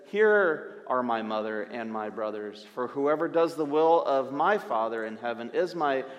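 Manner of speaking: put-on a lightly done New York accent; Jesus in a New York accent. Jesus pointing to his disciples, in a mock New York accent. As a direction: say it like a casual New Yorker, tongue in cheek. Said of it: "Sorry for the terrible accent".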